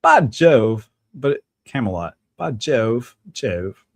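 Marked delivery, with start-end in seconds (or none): 0.0-0.9 loud, emphatic British exclamation; stagey British knight's cry; British accent. Shown as a demonstration. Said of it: "pretty good British rendition". 2.4-3.8 lightly put-on British exclamation; half-hearted stagey British; British accent. Shown as a demonstration. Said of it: "could do a British accent".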